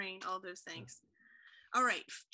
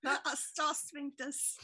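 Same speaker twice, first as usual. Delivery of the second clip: slow, higher mock English accent; 4 semitones higher, much slower than usual. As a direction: stretch it out in borrowed English vowels.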